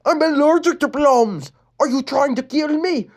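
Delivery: put-on high alarmed boy; shocked and accusing; panicked boy; Adam voice.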